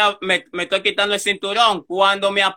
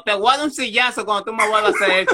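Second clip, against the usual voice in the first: laughing while quoting; much faster than usual. Retold or imitated. Retold driver's threat, laughing.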